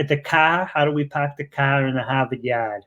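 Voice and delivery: Boston accent with dropped Rs. Shown as a demonstration. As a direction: show off a Boston accent on every "ar". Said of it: "up here in Boston, we don't have accents".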